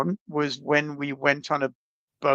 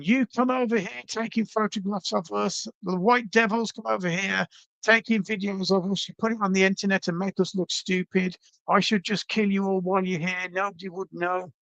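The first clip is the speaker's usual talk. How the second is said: mild mock angry rant, higher; retold screaming; 5 semitones higher than usual. Retelling the machete man's threats, mild mock anger. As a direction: imitate the machete man's rant without real yelling. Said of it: "he's screaming at us in Spanish".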